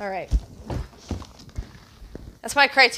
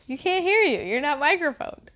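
mock scolding; 5 semitones higher than usual. Retells scolding her whispering husband.

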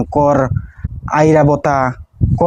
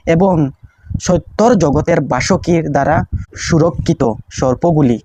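prayer recitation; 3 semitones higher, slower than usual. Shown as a demonstration.

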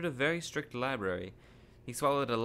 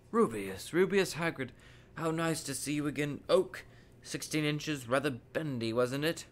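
put-on higher-pitched, delighted old wandmaker; delighted greeting; 4 semitones higher than usual. Wandmaker spots Hagrid and greets him, delighted. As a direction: greet an old customer with lifted, lively pleasure.

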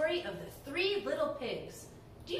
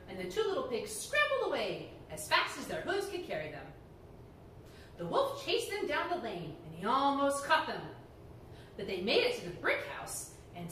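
put-on lively read-aloud to children; animated storyteller voice; storybook reading; 3 semitones lower than usual. A narrator's reading. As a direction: tell it like a bedtime story to kids.

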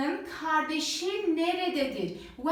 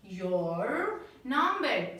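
"your number" drawn out slowly word by word; slow model reading; much slower than usual. Shown as a demonstration. Teacher slowly modelling the answer for students. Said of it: "diyeceğim ki".

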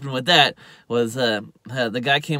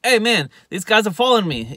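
higher-pitched mock alarm; mock urgent call; 7 semitones higher, 4 dB louder than usual. Dano phones that he's being followed, mock urgent. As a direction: call out a warning, playing it up.

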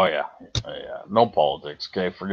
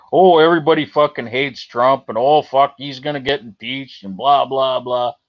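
mocking newscast rundown. Streamer parodying Canadian news about Trump, mocking. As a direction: rattle off their line dismissively, ending in blahs.

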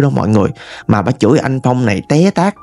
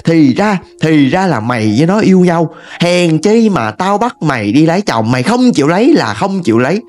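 mock a mother's scolding, pitched up; 3 semitones higher than usual. Mother berates daughter for loving a poor man, scolding. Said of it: "bà mới chửi".

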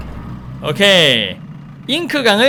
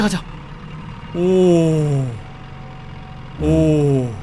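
ordinary talk

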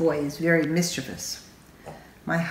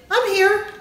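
playful reveal; 13 semitones higher, 4 dB louder than usual. Retold or imitated. Grown-ups reappear.

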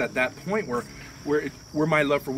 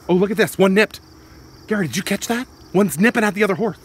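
excited; 6 semitones higher, 9 dB louder than usual. Acted. Horse nipping, excited.

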